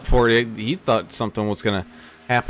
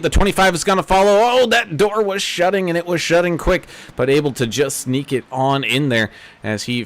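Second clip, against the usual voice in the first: fluent race commentary, lifting as the action heats up; live race play-by-play. Acted. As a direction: call the restart as it unfolds.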